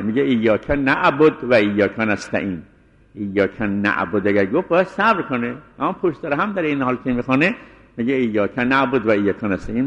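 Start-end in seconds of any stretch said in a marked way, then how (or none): 0.2-2.6 نعبد closed on d, running straight on; joined with sukun. Shown as a demonstration. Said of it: "یا وصل به سکون". 8.1-9.8 نعبد vowelless at the end, no break after it; joined with sukun. Shown as a demonstration.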